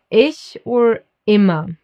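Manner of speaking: "ich or immer" with I toward the ee of cheese; careful German "ich", "immer". Shown as a demonstration. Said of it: "I is pronounced like E in German".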